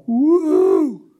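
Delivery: high, loud whoop; joyful whoop. Pretend. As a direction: let out a cheer. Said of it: "I'd be going".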